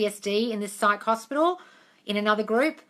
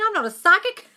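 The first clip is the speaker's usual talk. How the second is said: teasing laugh; 8 semitones higher, 4 dB louder than usual. Real, not acted. Teasing a viewer's question.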